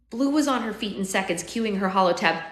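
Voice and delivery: measured, expressive audiobook reading; story narration. A narrator's reading. Narrator telling of finding his dying future self, story narration. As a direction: read it as an unfolding dramatic story.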